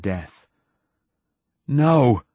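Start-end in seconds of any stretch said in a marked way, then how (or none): 1.7-2.2 high loud scream of no. A narrator's reading. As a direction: scream at the creature. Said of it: "he screamed again".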